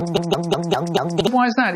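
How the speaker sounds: very slow, drawn-out ask; asking the boy why, slowly; slowed question. Retold or imitated. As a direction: stretch each word out.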